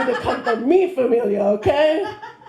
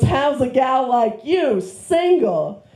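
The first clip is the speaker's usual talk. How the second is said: slow flirty uncle; slower than usual. Retold or imitated. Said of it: "And he goes".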